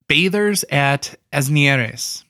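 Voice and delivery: put-on slow, playful Spanish accent on the title; a light, joking Spanish accent on the name. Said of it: "doing, like, a Spanish accent on that".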